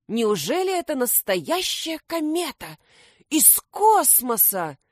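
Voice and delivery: high astonished question; amazed. A narrator's reading. Krembo asks his boss, amazed, about the comet. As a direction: marvel at it. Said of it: "изумился Крембо".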